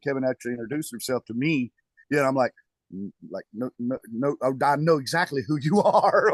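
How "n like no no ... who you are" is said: retold fanboy babble, breaking into a laugh; starstruck stammer. Musician retelling how he met his bass hero, mock starstruck. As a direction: stumble over the no's, then burst out amused.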